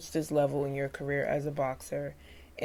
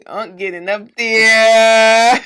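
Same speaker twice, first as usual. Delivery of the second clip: cry-laughing, slow and loud; laughing hard; 4 semitones higher, 15 dB louder, much slower than usual. Real, not acted. Host cracking up at the boxer's club story, cry-laughing. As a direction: laugh the words out high and loud.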